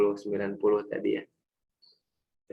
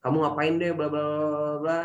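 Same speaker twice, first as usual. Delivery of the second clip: scolding father; 3 semitones higher than usual. Retold or imitated. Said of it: "si bapak marah".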